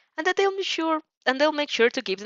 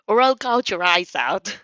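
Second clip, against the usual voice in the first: menacing threat; 4 dB louder than usual. Acted. Bakugo threatening the boys.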